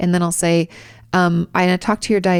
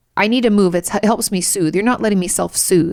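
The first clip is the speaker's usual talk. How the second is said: mock defiant, insistent tone. Retelling a patient insisting on moving to self-soothe: imitating directive pushback. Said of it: "in this very directive push back kind of way".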